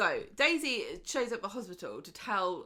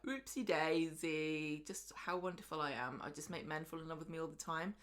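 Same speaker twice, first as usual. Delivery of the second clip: mock bragging; 2 semitones lower, 4 dB quieter than usual. Mocking Arlo boasting in the pub.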